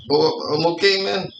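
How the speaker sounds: put-on light Mexican accent, laid-back and stubborn; a hint of a Mexican accent as Calito refuses the chair. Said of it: "really good accent, like, Mexican accent".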